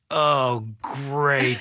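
slow, drawn-out disappointment; sarcastic letdown. Retold or imitated. Golfer learning his celebrity is a chaplain, sarcastic letdown. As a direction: stretch both words in mock dismay.

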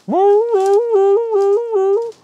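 very high, loud yipping hound howl; baying like a hound. Pretend. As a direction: howl like a beagle chasing. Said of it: "didn't sound like a beagle".

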